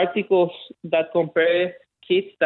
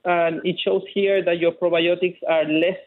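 Chilean accent. Real, not acted. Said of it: "he has a delightfully thick Chilean accent".

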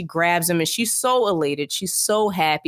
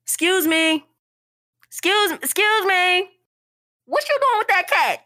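put-on prissy little girl; 12 semitones higher than usual. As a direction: play a nosy little girl calling down the street. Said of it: "exactly how I imagine she said it".

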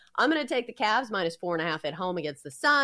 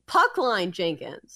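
character voice; slower than usual. Acted. Voices proposed character's name.

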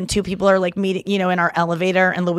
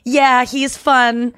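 drawn-out, passive-aggressive correction; slow, pointed politeness; 3 semitones higher, 4 dB louder, much slower than usual. Retold or imitated. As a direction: correct them slowly without saying so. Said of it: "kind of passive aggressively go".

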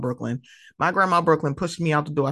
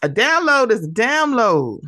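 Curtis; 5 semitones higher, 5 dB louder than usual. Retold or imitated. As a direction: imitate his catchphrase with big swooping pitch. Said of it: "where he said".

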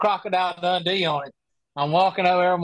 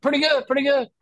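imitating stranger; 9 semitones higher than usual. Stranger voiced in story.

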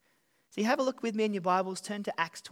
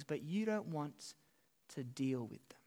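whisper; 4 semitones lower, 9 dB quieter than usual. Acted. Preacher voicing Agrippa's avoidance.

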